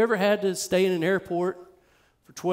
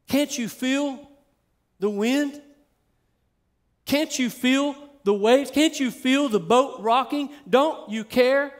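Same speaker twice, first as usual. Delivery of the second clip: higher-pitched, acted plea of alarmed disciples; mock freaking out; 5 semitones higher than usual. Disciples pleading with sleeping Jesus in the storm, mildly freaking out. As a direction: plead as a disciple, a touch of panic. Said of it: "the disciples was freaking out".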